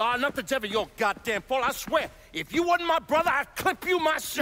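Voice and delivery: angry. Acted. Mob boss threatens his brother.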